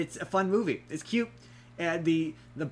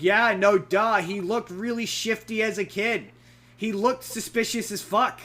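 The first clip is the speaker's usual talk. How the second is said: exasperated duh; 6 semitones higher, 5 dB louder than usual. Retold or imitated. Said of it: "And you're like".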